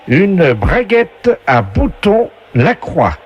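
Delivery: slow, drawn-out quiz-host announcement; game show announcer voice. Acted. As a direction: present the prize like a TV game host. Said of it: "la voix du jeu".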